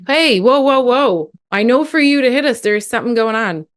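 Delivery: high, urgent parent stepping in; matching the intensity. Shown as a demonstration. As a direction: meet the kid's intensity, pitched well up. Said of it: "match the intensity".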